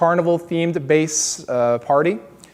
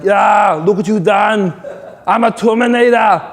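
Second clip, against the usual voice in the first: a louder, put-on tough-guy Terminator growl; 6 semitones higher, 6 dB louder than usual. Showing off to the guy who punched his plate, loud tough-guy voice. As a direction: boast like an unstoppable cyborg. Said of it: "that's a voice".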